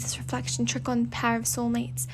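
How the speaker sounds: put-on huffy boast in a British accent; insist, in a light British accent; Fate's British accent. Fate defends the reflection trick, British accent. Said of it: "speaking in a British accent".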